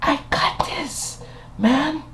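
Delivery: badly faked impression, very high and quiet; slow, squeaky attempt at a comedian's voice; George Lopez. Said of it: "trying to be George Lopez".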